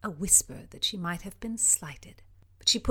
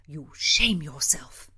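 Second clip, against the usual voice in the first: admonishing; 4 semitones lower, slower than usual. Acted. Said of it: "Mildred admonished".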